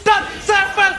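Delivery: high, loud, slow victory shout; fighting game announcer. Real, not acted. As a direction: drag out the game-winning call. Caster calls the game end.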